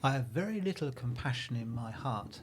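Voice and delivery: slow, solemn warning; slow grave officer. Retold or imitated. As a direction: read the officer's words slowly and gravely. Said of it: "police officer has just said to us these words".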